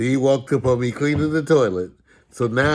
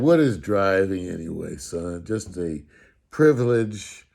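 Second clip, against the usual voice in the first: imitating dad. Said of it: "He said".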